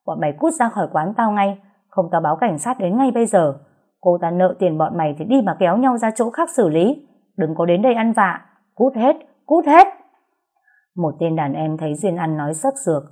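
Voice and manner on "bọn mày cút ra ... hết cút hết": builds from angry scolding to a shrieking, much louder scream; angry bar owner yelling "cút hết" at full power; fierce yell. Acted. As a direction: drive the thugs out, screaming. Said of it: "hùng hổ quát".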